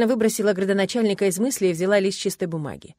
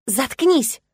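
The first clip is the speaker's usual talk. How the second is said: higher, louder shouted "shut up"; 6 semitones higher, 5 dB louder than usual. A narrator's reading. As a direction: yell it at the cat. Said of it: "выкрикнула Невея". (выкрик девочки)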